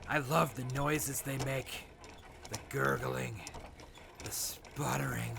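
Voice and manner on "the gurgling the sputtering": relishing whisper. Acted. Sadistic raider savoring the sounds of dying prisoners, whispered. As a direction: breathe the word like a treat.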